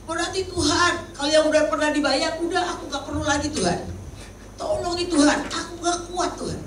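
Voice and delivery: mock whining prayer. A believer begging God for help, high whining. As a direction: act out someone moaning to God for help. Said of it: "Itu masih merintih-rintih".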